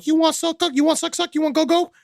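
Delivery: high, teasing come-on voice; seductive bar woman. Retold or imitated. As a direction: coax him in broken English. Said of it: "some woman going".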